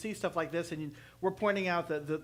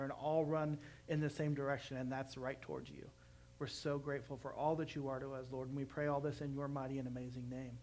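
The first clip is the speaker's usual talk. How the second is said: earnest closing prayer; heartfelt prayer. Real, not acted. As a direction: pray sincerely over the congregation. Pastor closes in prayer.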